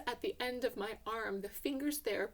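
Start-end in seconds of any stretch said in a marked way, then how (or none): none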